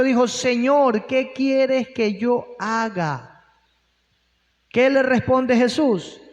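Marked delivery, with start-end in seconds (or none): 0.3-3.5 mild trembling fear. Retold or imitated. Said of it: "temblando y temeroso".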